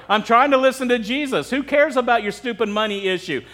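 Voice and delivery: mock-annoyed complaint; harsh retort. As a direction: play a listener fed up with the interrupter. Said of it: "that sounds kinda harsh".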